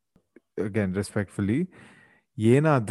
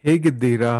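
Kannada accent; 3 dB louder, faster than usual. Shown as a demonstration. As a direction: clear native Kannada. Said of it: "let's go through the entire episode".

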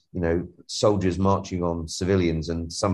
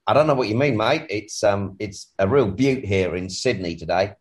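a light put-on Aussie twang; Aussie accent. Guest jokes with host about Sydney weather in a mock Aussie accent. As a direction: play it as a cheerful Sydney local, Aussie accent. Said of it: "got one of these funny Aussie twangs".

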